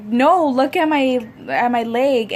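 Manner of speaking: retold insistence. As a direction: make him look at the leg. Insisting to husband about her leg.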